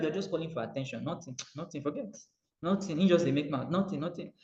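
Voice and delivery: ordinary talk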